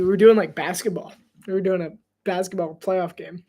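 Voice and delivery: usual speaking voice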